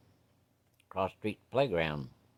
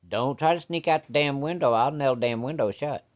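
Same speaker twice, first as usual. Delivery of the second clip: stern dad warning; 4 semitones higher, 3 dB louder than usual. Acted.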